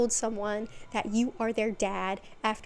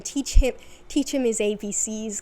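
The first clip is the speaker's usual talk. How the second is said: a sudden loud burst of exasperation; exasperated outburst; 6 dB louder than usual. Real, not acted. Vlogger ranting about Dante, loud and exasperated. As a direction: blurt it out, fed up.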